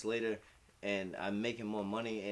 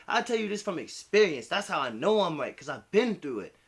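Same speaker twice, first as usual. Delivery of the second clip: higher, louder mom voice; mom lecturing; 6 semitones higher, 6 dB louder than usual. Retold or imitated. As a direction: lecture like a mom who knows. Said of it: "She's like".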